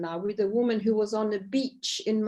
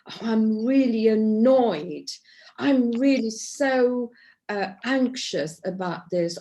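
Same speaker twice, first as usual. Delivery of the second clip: loud, slow, mock-annoyed venting; acted annoyance; 4 dB louder than usual. Shown as a demonstration. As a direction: show the group how to vent, drawn out. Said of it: "how are you feeling?".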